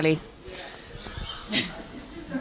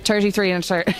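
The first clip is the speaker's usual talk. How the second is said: Irish accent; faster than usual. Shown as a demonstration. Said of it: "I can't even say it".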